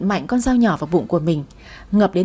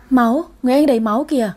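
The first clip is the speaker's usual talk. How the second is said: quick, alarmed exclamation; panicked cry; 3 semitones higher, faster than usual. A narrator's reading. Little Bin seeing blood on Tôm, panicked cry. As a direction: blurt it out fast in alarm. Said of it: "nó hoảng hốt kêu lên".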